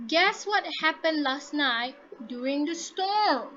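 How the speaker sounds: slow demo question, pitch swelling up on "storm"; rising question. Shown as a demonstration. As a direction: stretch and lift "storm" before it drops. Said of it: "rising intonation to ask".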